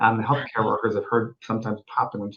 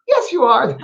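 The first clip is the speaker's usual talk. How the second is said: put-on high small child's voice, matter-of-fact; little girl voice; 10 semitones higher, 5 dB louder than usual. Medium voicing a spirit child in a seance tape, light child voice. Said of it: "a wee little one".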